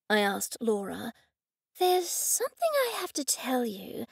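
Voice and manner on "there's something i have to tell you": hesitant, unvoiced whisper, higher; faltering whisper. A narrator's reading. Laura confessing to Goldie, faltering whisper. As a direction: start a hard confession in a halting whisper. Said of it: "she began in a faltering manner".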